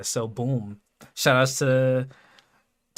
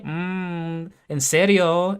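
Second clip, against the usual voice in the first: bad Spanish accent; 4 semitones higher, much slower than usual. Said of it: "She does this terrible freaking Spanish accent".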